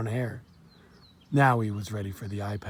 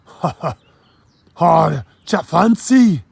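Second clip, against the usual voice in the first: slow, loud Jamaican belly laugh, higher; 4 semitones higher, 9 dB louder, slower than usual. Acted. Dockworker laughs at the polite boy, loud Jamaican laugh. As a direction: laugh it out, mocking the boy's manners. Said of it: "The man laughed and slapped his knee".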